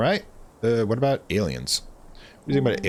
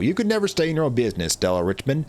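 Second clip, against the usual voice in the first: lightly voiced grumpy country old-timer; Duke. Duke scolding nosy Stella, lightly voiced old-timer. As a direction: scold her as a cranky countryman, falling at the end.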